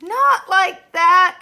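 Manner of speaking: loud, slow, high exasperated protest. A narrator's reading. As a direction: lean on not in annoyance. Irritated objection, repeated.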